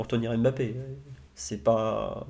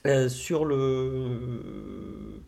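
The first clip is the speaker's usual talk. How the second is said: choking; 3 dB quieter, much slower than usual. Real, not acted. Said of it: "pardon, ça va aller mieux".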